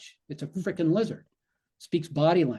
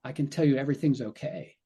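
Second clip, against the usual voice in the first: soothing. Shown as a demonstration. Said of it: "we take a different attitude".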